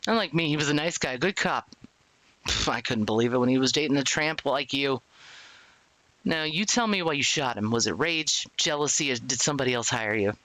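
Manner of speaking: lightly voiced hostile cop; police interrogator. Officer accuses his dead friend's girlfriend, lightly acted interrogation. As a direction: press the suspect for a motive.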